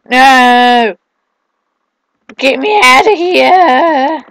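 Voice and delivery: slow, high hammed-up plea; mock pleading. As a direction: drag out a desperate cry. Trapped again, drawn-out.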